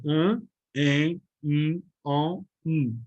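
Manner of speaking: "An, en, in, on, um" as single nasal sounds; one nasal sound per beat, list-like; nasal vowels. Shown as a demonstration. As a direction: hum each vowel through the nose, separately. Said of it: "É um som nasal".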